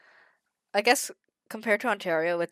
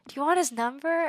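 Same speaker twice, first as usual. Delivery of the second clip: slow, higher put-on older man; drawn-out mock sales pitch for his son; imitated matchmaking father; 6 semitones higher, slower than usual. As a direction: mimic a proud dad drawing out each word.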